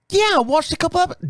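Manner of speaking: high-pitched mock British bartender; Scottish-turned-British accent. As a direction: imitate a Scottish woman, sounding British. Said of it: "it's gonna sound British, I know".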